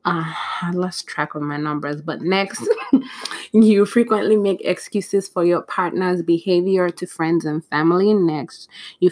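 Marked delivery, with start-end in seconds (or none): 2.7-3.5 a quick laugh at her own slip; a little self-conscious laugh; short laugh. Real, not acted. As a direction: laugh it off lightly. Laughs at losing her count.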